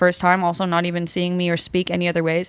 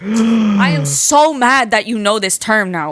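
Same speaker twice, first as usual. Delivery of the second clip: mock-outraged, drawn out slowly; indignant after a gasp; exasperated; 4 dB louder, slower than usual. New Yorker to friends stealing her slang, mildly exasperated.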